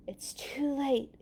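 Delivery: slow, breathless bad news; out of breath delivering news. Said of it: "he said breathlessly".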